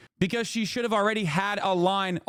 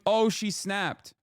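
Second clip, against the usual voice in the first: mocking liberals; much slower than usual. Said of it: "are probably going".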